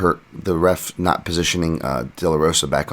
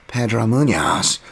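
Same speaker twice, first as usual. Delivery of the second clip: drawn-out, higher mock English accent; annoying Bisping accent; 6 semitones higher, 4 dB louder, slower than usual. Podcaster imitating a commentator calling a fighter's name, hammed-up English accent. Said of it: "in, like, an annoying Bisping accent".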